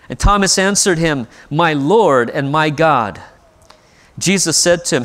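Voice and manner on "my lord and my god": reverent confession. Acted. Thomas's confession.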